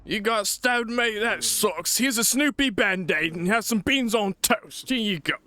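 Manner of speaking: a hint of a chirpy British mate; mock British. Comforting the stabbed companion in a mock British voice.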